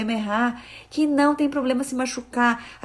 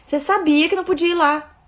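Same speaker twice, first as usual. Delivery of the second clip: scolding; 6 semitones higher, 4 dB louder than usual. Retold or imitated. Mother scolding toddler.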